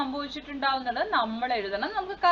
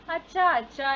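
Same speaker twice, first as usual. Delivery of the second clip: raised, higher call to father; 4 semitones higher, 5 dB louder than usual. Acted. Child in a story calling father to ask, raised voice. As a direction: call for Dad as a child would.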